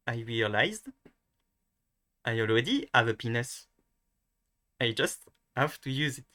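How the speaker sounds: French-accented English, phrase by phrase. Shown as a demonstration. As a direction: repeat it as a careful French-accent demo. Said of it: "Okay, once again".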